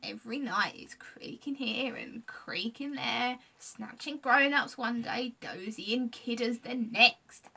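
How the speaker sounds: slow creaker voice, near laughter; half laughing. Acted. Scratch confessing to Lucy, his voice breaking into odd laughter. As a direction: let it wobble toward a laugh. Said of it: "voice started to sound rather strange".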